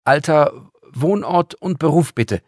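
put-on a high, loud, officious young girl; brisk girl clerk. Girl interrogating the visitor, bossy and loud. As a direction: play the girl as a self-important receptionist.

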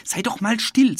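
put-on boy snapping at the sprite, understated; mildly cross. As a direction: brush off a pest, lightly irritated. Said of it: "sagt Jonathan böse".

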